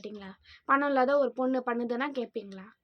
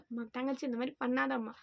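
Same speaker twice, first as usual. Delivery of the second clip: softer, patient sisterly request; gentle plea; 4 dB quieter than usual. Shown as a demonstration. Vlogger showing how commenters should gently advise, softer. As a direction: coax her kindly, not scold. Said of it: "கொஞ்சம் பொறுமையா சொல்லுங்க".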